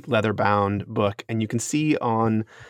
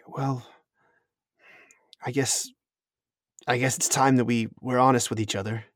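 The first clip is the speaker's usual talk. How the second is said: whispered, then quickly finding voice; hushed confession. Acted. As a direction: breathe it out like a reluctant secret.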